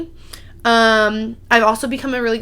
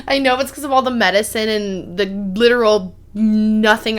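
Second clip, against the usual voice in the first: laughing. Real, not acted. Laughing while explaining.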